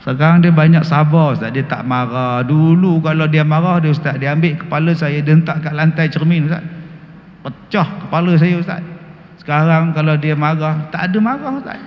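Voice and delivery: imitated wife. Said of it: "isteri kata apa".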